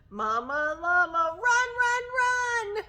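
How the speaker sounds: rising to a high, loud chant; urgent mock cry. A narrator's reading. Teacher urges mama llama upstairs, urgent high cry. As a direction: urge her on with mounting urgency.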